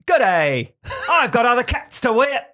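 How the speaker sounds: put-on loud, high, dubious French accent; botched French accent. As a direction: belt out a badly faked French accent. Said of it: "Is that French?".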